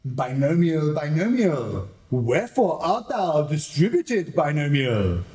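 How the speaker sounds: lightly theatrical verse recital; Shakespearean recital. Acted. Villain parodying Shakespeare to the audience, light theatrical recital. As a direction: declaim it like a Romeo soliloquy.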